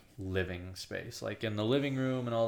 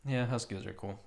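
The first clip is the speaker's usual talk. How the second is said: ordinary delivery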